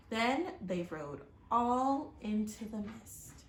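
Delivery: steady, expressive read-aloud storytelling; story narration. A narrator's reading. Reading a storybook aloud to children, expressive narration. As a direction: tell the chapter to young listeners.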